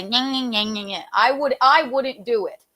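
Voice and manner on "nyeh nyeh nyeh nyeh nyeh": taunting. Retold or imitated. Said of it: "tauntingly back say".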